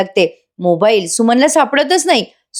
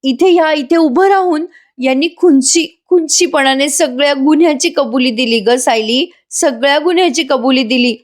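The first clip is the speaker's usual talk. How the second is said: mock-distraught, higher-pitched outpouring; imitated tearful telling; 5 semitones higher than usual. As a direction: act out an upset aunt, pitch raised, without real sobs. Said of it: "Suman मग रडत रडत सांगते".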